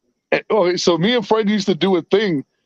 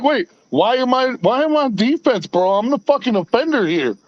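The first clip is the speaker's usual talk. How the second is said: higher-pitched baffled protest; mock indignation; 5 semitones higher than usual. Troll suddenly on defense, imitated in mock indignation.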